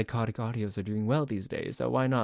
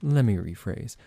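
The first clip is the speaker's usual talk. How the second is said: psychotic vampire; 2 semitones lower than usual. Acted. Psychotic vampire roleplay audio.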